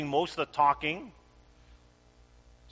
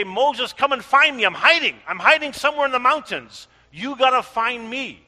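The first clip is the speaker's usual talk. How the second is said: mock God calling; 6 semitones higher, 7 dB louder, faster than usual. God voiced calling out, mocking.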